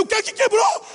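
high panicked yell of a scared flyer; terrified shout. Retold or imitated. Preacher mid-flight yelling to the pilot in panic.

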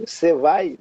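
"Cê vai" with "você" clipped to "Cê"; swallowed contraction. Shown as a demonstration. Teacher showing how people swallow words, contracted "Cê vai". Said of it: "a gente meio que engole".

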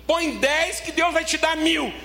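high, slow, shouting prosperity pitch; hyped preacher promise. Retold or imitated. Mocking prosperity preachers with a slow shouted pitch. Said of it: "Fala assim".

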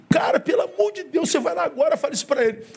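high, pressing "go tell him now"; eager high-pitched urging; urgent exclaim. Retold or imitated. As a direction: push him out the door with excitement. Urging the waiter excitedly.

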